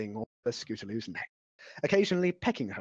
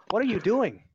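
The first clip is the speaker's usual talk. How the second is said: higher, louder baffled question; surprised; 8 semitones higher, 6 dB louder than usual. Acted. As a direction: ask in disbelief. Rainbow Dash confused, louder.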